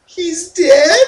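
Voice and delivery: high, loud shocked question; questioning disbelief. Retold or imitated. Bridget kneels by Cody, shocked high questioning voice. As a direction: ask it as if you can't believe it. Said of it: "Question mark?".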